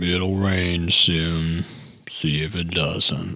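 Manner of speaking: mopey, downcast, gloomy storybook-character voice. Asked to do the line in a Frank voice, the speaker does an Eeyore voice. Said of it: "Can you do that in a Frank voice".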